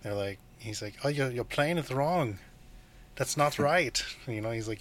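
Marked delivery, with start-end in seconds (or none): 1.0-4.0 slightly raised pitch for a quoted interruption; higher-pitched correcting quote; lightly voiced film character. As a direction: lightly act out the man correcting a player. Retells film's German correcting flautist.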